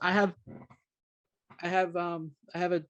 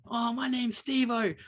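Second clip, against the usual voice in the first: "Steve-O" drawn out slowly and higher, a hint of an attention-seeking girl; mock shout-out; 6 semitones higher, slower than usual. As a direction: lightly imitate her calling at the screen. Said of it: "the same girl would just go".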